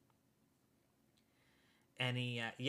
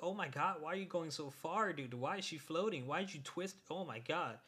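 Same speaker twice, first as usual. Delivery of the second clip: higher, stunned questions tumbling out; disbelieving outcry; 4 semitones higher than usual. Retold or imitated. Fan reliving the anime scene to friend, high disbelieving outcry. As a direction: react like you can't believe the cruelty on screen. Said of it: "I was like".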